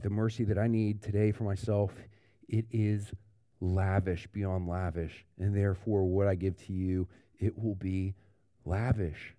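sincere. Shown as a demonstration. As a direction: let lavish sound generous and sure. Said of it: "But not here".

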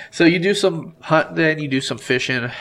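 stuffed-up nose; talking through a clogged nose; blocked nose. Real, not acted. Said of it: "I'm all clogged up".

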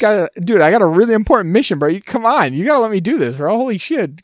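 high, loud pushy bro voice; frat bro. Retold or imitated. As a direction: hype him up like a frat guy begging. Droid voiced pleading with another droid.

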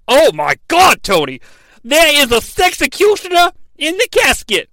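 shocked exclamation. Real, not acted. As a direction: blurt it out in disbelief. Shocked reveal to Tony.

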